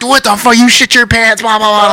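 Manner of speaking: high-pitched imitation of teasing bandmates; mock jeering. Bandmates taunt the singer about his pants, high mock jeering. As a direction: jeer in a high, mocking voice.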